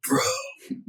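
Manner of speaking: breathless whisper of amazement; whispered awe. Retold or imitated. Five-year-old son whispering at a doe, awed whisper. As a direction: whisper one word in awe.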